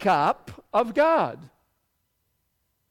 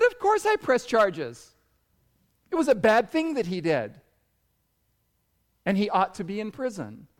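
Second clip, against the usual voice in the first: firm, mildly indignant retort; retold indignation. Retelling a mother asked about pressing charges, mild indignation. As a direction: answer emphatically as the mother, easing at the end.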